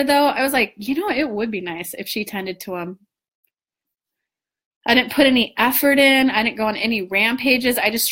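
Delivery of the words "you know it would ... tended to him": softer, gentle wishing tone; a hushed, easy wish; soft desire. Shown as a demonstration. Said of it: "do you see how that was a soft desire".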